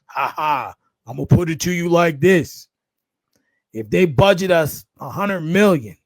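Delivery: lightly imitated deep voice, measured delivery; a hint of a distinctive deep-voiced celebrity impression; a well-known rapper. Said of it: "he's got that distinct, deep voice".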